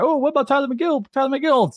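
high-pitched hammed-up fan clamour; mock hype, voice jumped way up; mock fan excitement. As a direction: imitate eager fans in a silly high voice. Mocks hyped-up fans of a player.

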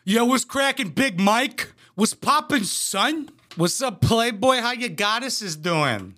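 put-on bro swagger; hammed-up bro greeting. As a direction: greet your buddy like a mock playboy. Mock bro greeting to Michael.

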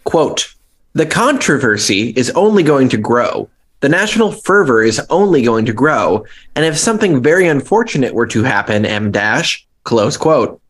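reading with punctuation spoken aloud; dictating. Shown as a demonstration. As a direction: read it out, naming each mark. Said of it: "which passage from this book uses the em dash".

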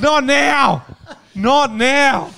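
high, laughing "not now". Retold or imitated. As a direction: giggle it out through laughter. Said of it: "I'm like".

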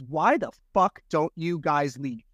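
slow, mildly exasperated question; imitated frustration, slowed for emphasis; retold pissed-off friend. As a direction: draw it out like a fed-up friend. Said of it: "I'm fucking pissed".

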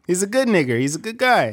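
loud, high wiseguy echo; echoed mobster bit. Retold or imitated. Friend echoing the mobster line, loud. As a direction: repeat the tough guy's line, hammed up.

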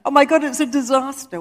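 high, loud mock shriek of "disaster"; retold scream. Passenger screaming to the steward over her paused movie, high loud mock shriek. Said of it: "she screamed so loudly to the steward".

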